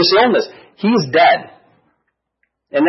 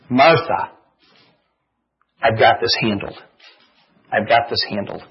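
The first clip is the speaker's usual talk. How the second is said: reassuring Jesus; 6 semitones lower, 4 dB quieter than usual. Retold or imitated. Jesus reassuring Martha, voiced.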